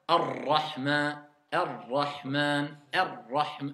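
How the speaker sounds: "Ar-Rahman" slow, light roll on the r; slow recitation. Shown as a demonstration. Teacher modelling Ar-Rahman slowly for pupils. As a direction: draw out "Ar-Rahman" gently. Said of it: "Vous voyez comment je dis?".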